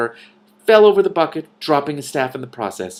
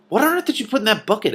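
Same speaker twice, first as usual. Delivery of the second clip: astonished; 12 semitones higher, 4 dB louder, faster than usual. A narrator's reading. Astonished question.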